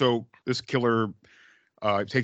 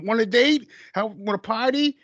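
street hooker come-on; 9 semitones higher than usual. Retold or imitated. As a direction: toss out the lines like a hooker on a corner. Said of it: "prostitutes would say".

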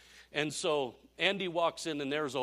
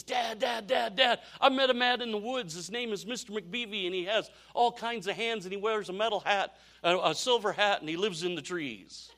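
put-on high, breathless-paced kid report to dad; imitated kid, bursting with news; excited boy; 5 semitones higher than usual.

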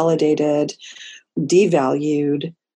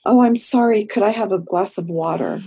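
mock-anxious client who can't stop saying sorry; over-apologetic client; 3 semitones higher than usual. Client arriving late and hot, apologizing to the therapist, flustered. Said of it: "they'll come in and they'll say".

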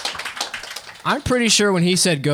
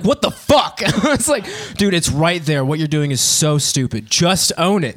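unreasonably angry; 3 semitones higher, slower than usual. Retold or imitated. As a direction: blow up over a silly word, half laughing. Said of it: "unreasonably angry".

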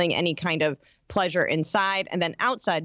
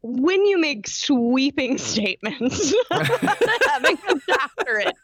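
laughing; 5 semitones higher, slower than usual. Real, not acted. Teasing friend while laughing.

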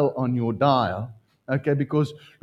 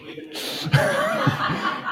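breathy high-pitched giggle of delight; high giddy laugh. Real, not acted. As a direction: giggle with pure joy. Delighted laugh at wife's yes.

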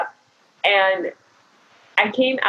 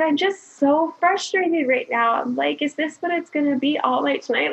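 higher, exasperated retold complaint; mock near-tears exasperation; frustrated; 6 semitones higher than usual. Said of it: "I was ready to cry".

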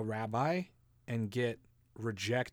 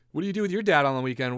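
put-on curious kid; 3 semitones higher, 9 dB louder, much faster than usual. Kids asking about weekend.

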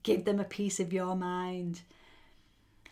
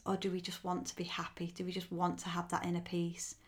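soft whisper; 5 dB quieter, faster than usual. Acted. Softer gentle question.

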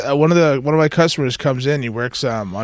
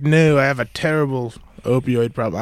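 put-on failed Scottish accent drifting Australian; clumsy Scottish-Australian mock accent; botched Scottish accent. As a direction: attempt Scottish, land on weird Australian. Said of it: "doing some weird Australian va-, variant".

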